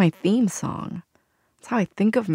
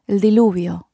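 re-enacted yell, a little louder; mock dramatic yell; 5 dB louder than usual. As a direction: call it out dramatically, only half raised. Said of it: "we yelled dramatically".

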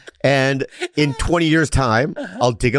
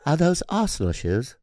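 put-on softer British accent; quieter, better British bloke; 3 semitones higher, 5 dB quieter than usual. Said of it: "That's good".

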